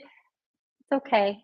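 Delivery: slow, soft and tender, as if to someone hurting; tender reassurance. Real, not acted. Teacher comforts a suffering student, softly and tenderly. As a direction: gently reassure a suffering listener. Consoling listeners who are suffering.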